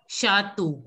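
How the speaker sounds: Shatu with a final long O; pronunciation demo. Shown as a demonstration. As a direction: say Shatu ending like the letter O. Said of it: "it is pronounced as O".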